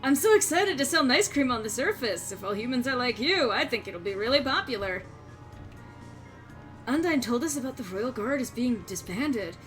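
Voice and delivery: put-on bubbly sorority girl voice; valley girl, lots of like; Valley Girl accent. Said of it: "Valley Girl accent".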